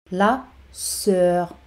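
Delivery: "La", short pause, "sœur"; teacher's spaced-out "La ... sœur"; word by word. Shown as a demonstration. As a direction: separate "La" from "sœur" for learners. Teacher models word, then separates it.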